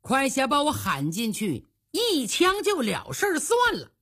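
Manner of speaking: impatient inner voice, building; acted impatience. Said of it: "早就等得不耐烦了".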